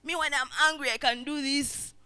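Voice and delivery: a hint of a puffed-up tough guy; superhero boast. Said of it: "You're a superhero".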